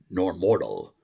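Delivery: a put-on English accent, slow and a little loud; amateur English accent reading a poem. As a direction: read it like a stage Englishman, slow. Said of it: "a normal English accent, if I can imitate one a little bit".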